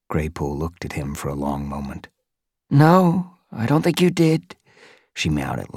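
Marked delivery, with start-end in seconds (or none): 2.7-4.5 higher, worried she-cat voice; worried queen cat. Acted. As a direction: fret for the lost mother.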